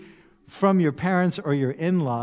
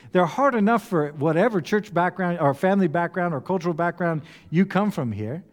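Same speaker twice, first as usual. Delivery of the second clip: ordinary talk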